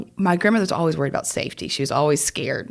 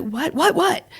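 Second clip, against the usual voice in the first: alarmed; 12 semitones higher, slower than usual. Retold or imitated. Alarmed reply to grandmother.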